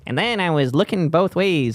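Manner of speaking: lightly done little alien voice; pinched little alien voice. Retold or imitated. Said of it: "a little alien voice".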